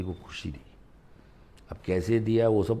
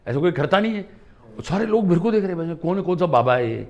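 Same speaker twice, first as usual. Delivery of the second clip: higher, louder amazed retelling; amazed bystanders; 10 semitones higher, 9 dB louder than usual. Retold or imitated. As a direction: act out the crowd's amazement. Onlookers at the airport staring.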